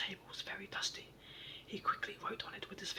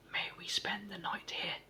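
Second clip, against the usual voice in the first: loudest voice; 4 dB louder, slower than usual. Acted. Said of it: "in his loudest voice".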